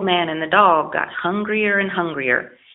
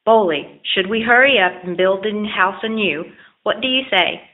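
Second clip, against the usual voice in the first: enthusiastic; 3 semitones higher than usual. Acted. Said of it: "enthusiastically suggested the old man".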